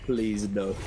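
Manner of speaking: pleading no, no, please; begging it not to happen; anguished denial. Real, not acted. Caster dreading team elimination.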